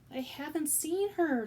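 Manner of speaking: high, slow, loud shout. Acted. Louise shouting to the kitchen, loud. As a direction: yell it out in denial. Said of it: "Louise was shouting".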